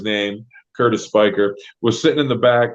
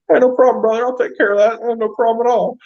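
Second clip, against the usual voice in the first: Bob's easygoing reply; 9 semitones higher, faster than usual. Retold or imitated. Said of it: "Bob's like".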